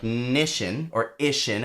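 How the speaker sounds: nishin and ishin said as word endings; nishin, ishin, sounded out; rhyme sound demo. Shown as a demonstration. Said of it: "would have to sound like".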